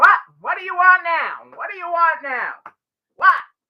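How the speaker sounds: loud, rude, irritated barking voice. Acting out someone answering the door or phone to customers, mock-barking at customers. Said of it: "you're just barking at your customers".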